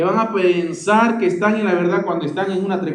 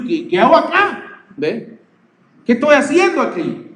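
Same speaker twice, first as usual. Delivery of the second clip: high-pitched mock bewilderment, slowing toward the end; stunned self-questioning, pitched well up; bewildered awakening; 6 semitones higher, slower than usual. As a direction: act out suddenly wondering what you got into. Acting out waking up to truth.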